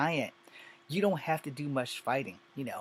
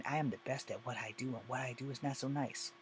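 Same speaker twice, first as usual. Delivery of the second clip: quoting Wolverine; 7 dB quieter than usual. Retold or imitated. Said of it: "to quote Wolverine".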